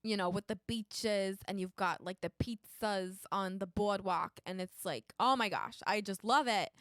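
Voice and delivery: attempted Jersey accent. Game player unsure they can manage it, trying a Jersey accent.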